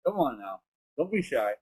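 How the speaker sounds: talking around a cigar; words pushed past a cigar in the mouth. Real, not acted. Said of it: "it's 'cause I have a giant cigar in my mouth".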